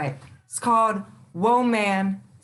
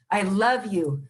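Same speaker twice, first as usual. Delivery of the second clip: tender affirmation. Real, not acted. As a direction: lift them up gently, word by word. Affirming list to women viewers.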